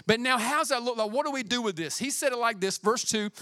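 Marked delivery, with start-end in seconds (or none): none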